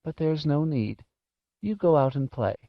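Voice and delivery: put-on gentle, high old-lady voice; tender old woman reassuring; said softly. A narrator's reading. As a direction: kindly send a child off, pitched high. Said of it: "she said softly".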